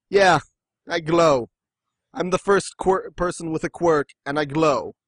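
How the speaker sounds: sarcastic, unimpressed boast; mock underwhelmed. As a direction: announce a useless power with mock pride. Imagines first quirk holder, unimpressed.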